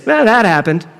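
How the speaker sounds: a light, accepting "Well, that happened."; shrugging it off. Shown as a demonstration. Preacher showing the congregation how to shrug it off. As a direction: let it go with an easy shrug. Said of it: "and it's this".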